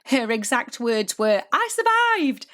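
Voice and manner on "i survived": high-pitched mock-triumphant exclamation; imitating triumphant relief. Coach quotes her proud student after the show, high triumphant cry. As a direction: announce it like a proud survivor.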